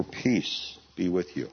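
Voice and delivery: calm frightened men, unhurried; gentle quoted greeting. Acted. Quoting the risen Lord's greeting.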